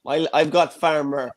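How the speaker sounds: put-on broad Mayo farmer accent; gruff west of Ireland Mayo voice. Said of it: "I struck with my Mayo voice".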